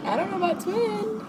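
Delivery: giggling through the words; laughing. Real, not acted. Laughing off a viewer's twin comment, amused giggle.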